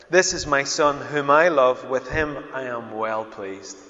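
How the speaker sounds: slow, solemn proclamation, strong at the start; voice from heaven. Acted. Father speaking from heaven over his son, slow proclamation. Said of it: "What was the voice like?".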